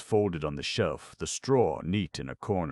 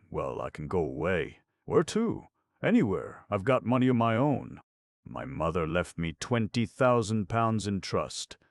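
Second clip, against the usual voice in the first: lightly voiced Connie; 3 semitones higher than usual. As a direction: plead with him to let her go away.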